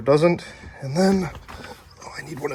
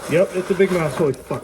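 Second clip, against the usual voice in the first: startled shout; 7 semitones higher, 5 dB louder than usual. Real, not acted. Reacts to oil gushing out.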